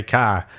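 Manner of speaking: "car" as "cah"; dropped R. Retold or imitated. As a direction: attempt "car" but miss the R. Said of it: "Right, r-, really close".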